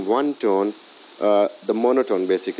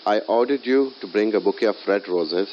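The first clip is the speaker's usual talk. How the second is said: weight on "you" in the sentence; stress on YOU. Shown as a demonstration. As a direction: make "you" the prominent word. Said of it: "if I stress on you".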